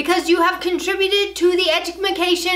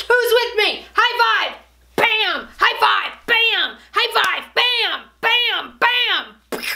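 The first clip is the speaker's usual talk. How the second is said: rallying cheer; 4 semitones higher, much slower than usual. Acted. Rallying the viewers, high fives.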